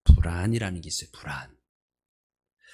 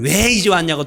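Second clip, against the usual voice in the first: loud, high scolding question; mock irritated complaint; 6 semitones higher, 8 dB louder than usual. Pastor imitates family griping about coming home late, loud. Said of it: "짜증을 내요".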